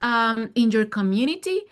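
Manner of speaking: bright, high, eager delivery; excited. Real, not acted. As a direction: pitch lifted high with enthusiasm. Eager answer about young people.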